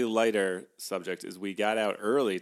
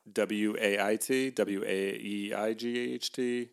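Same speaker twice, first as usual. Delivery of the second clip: spelled out; slower than usual. Shown as a demonstration.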